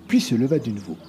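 plain reading voice

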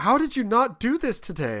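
imitating a daughter's whiny question. Daughter asking why he didn't do it. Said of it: "She's like".

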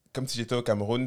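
Cameroonian French, little movement in the tune; level out the melody like Cameroonian French; flat Cameroonian accent. Shown as a demonstration. Guest showing how they talk in Cameroon, flat Cameroonian accent. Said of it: "c'est beaucoup plus plat".

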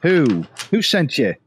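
put-on lightly English-accented interrogator; a hint of an English accent. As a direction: keep the English accent while grilling. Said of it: "I should stick with an accent".

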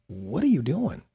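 mock baffled question, drawn into a swoop; incredulous. People looking at the speaker like he's odd, incredulous. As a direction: act out puzzled onlookers.

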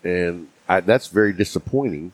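talking around a cigar; words around a cigar held in the mouth. Real, not acted. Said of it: "my cigar keeps going out".

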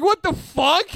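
peak of the panic, yelped; escalating hammed-up outrage; retold shock. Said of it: "I'm like".

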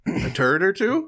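high, startled echo; mock alarm. Real, not acted. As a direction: repeat it in playful shock. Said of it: "Oh, God".

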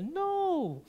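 sharp high no; Will's retort. Retold or imitated. Pastor retelling Will's objection, high sharp no. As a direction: fire back a quick no. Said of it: "Sabi ni Will".

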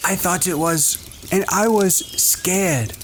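soft, high awed whisper. A narrator's reading. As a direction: hush it in awe. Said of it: "talking in an awed whisper".

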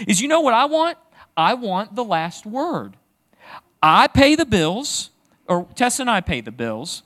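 hammed-up dad demanding the last word; indignant parent. Dad arguing with his teenager, mock indignant. Acting himself arguing with kids.

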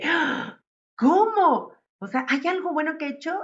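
high, amazed "¿Cómo?"; replaying her own startled discovery; surprised disbelief. Retelling her sudden realization to the host, high surprised voice. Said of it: "Y dije".

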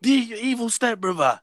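high, slow villain reveal; dramatic reveal. Acted. Answering his friends about Michael, dramatic reveal.

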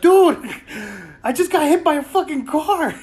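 high, loud exasperated shout; retold outburst. Bloodied friend yelling at his buddies, high loud disbelief. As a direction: yell it out in disbelief. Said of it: "And I'm like".

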